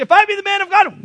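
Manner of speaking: loud, high-pitched acted proclamation; thundering pronouncement. Elisha answering the captain with fire, loud proclamation. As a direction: call down judgment at full voice.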